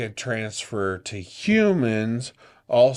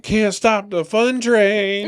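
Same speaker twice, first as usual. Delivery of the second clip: high slow laughing sing-song; 8 semitones higher, 5 dB louder, slower than usual. Real, not acted.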